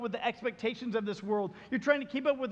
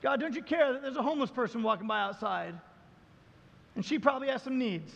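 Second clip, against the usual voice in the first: crying out to God; 5 semitones higher than usual. Retold or imitated. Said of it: "we cry out to God".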